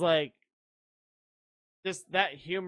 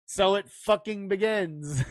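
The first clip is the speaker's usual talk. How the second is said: mock-grave, firmly delivered movie line; would-be chilling film quote; 3 semitones higher, 4 dB louder than usual. Joker quoting a battle line in the rain, mock-grave. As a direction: deliver it like an epic battle opener. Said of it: "as chilling when you say it like that in the rain".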